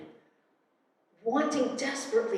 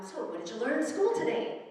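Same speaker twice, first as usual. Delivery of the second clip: a mother's higher, lilting dinner-table question; lightly voiced mom; 5 semitones higher, 3 dB louder than usual. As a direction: ask it as a mom, lightly imitated.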